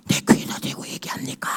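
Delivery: 선비가 귓속말로 묻는 속삭임; 숨죽여 속삭이며 묻기; whisper. Retold or imitated. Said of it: "소곤소곤 얘기하는 거예요". (귓속말로 속삭이는 선비)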